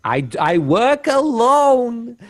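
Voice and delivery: high, slow bad Austrian accent. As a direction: overdo a clumsy Austrian accent. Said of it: "doing his worst Jewish Austrian accent".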